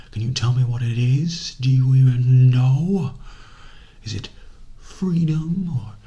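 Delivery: loud, mocking whispered challenge; taunting loud whisper. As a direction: jab the questions at him in a loud whisper. Villain taunting captive with questions.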